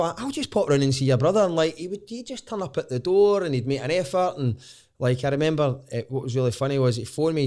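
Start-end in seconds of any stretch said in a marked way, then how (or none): 0.2-1.4 Welsh lilt, a bit louder; Welsh accent. Retold or imitated. Retelling the friend's offer to pop round, in an imitated Welsh accent. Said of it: "that's a Welsh accent I was doing".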